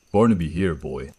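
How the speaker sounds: clear loud call. Acted. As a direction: call him over the ravine, clear and loud. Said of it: "My voice rolled out over the ravine, clear and loud".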